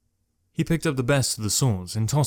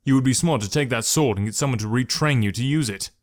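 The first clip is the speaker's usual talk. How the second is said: angry; 3 dB louder than usual. Acted. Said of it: "couldn't stop the angry reply".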